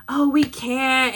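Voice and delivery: drawn-out mock "loser" whine; imitating reluctant guests. Runner imitating guests turning down the marathon, drawn-out mock reluctance. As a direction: lightly mimic someone making excuses, slowly. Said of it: "they were just like".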